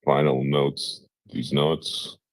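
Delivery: low, deep speaking voice; a deep, resonant voice. Real, not acted. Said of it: "Jesus, your voice is deep today".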